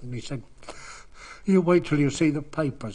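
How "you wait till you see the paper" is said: higher and louder, triumphant warning; loud defiant promise. Retold or imitated. Young journalist promising Jack Hobbs, loud and defiant. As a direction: throw the threat out with glee.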